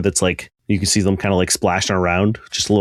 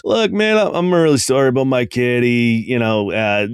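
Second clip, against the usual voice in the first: apologetic father. Acted. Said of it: "walks over to you and goes".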